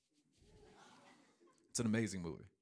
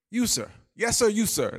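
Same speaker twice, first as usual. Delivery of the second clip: much higher, louder, pompous professor; professor calling on him; 11 semitones higher, 6 dB louder than usual. Retold or imitated. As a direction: point and call on the student like a stiff professor. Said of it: "The professor says".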